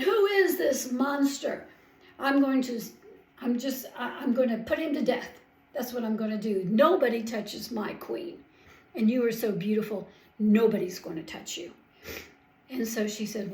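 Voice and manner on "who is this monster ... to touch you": louder, indignant king vowing revenge; upset king. Acted. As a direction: let the king's anger rise, a touch hammed-up. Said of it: "was very upset".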